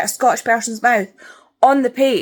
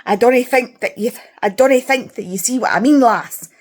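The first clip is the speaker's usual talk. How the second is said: hammed-up Scottish dialect; mock written Scots; 2 semitones higher, 3 dB louder than usual. Reader showing how authors write Scottish speech, mock Scottish dialect. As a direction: parody book-Scots with a pointed "lass". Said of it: "that's how they write it".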